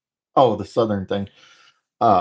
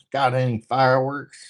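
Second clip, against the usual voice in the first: Joe Dirt quote; 5 semitones higher than usual. Retold or imitated. Quoting Joe Dirt to the stream in a light hick voice. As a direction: toss off a hick one-liner. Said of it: "Sounds like some Joe Dirt stuff".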